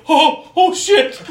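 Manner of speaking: high, loud, slow oh-no; hammed-up high-pitched dismay; mock panic. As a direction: play a big dawning alarm. Voices monster realising his mistake.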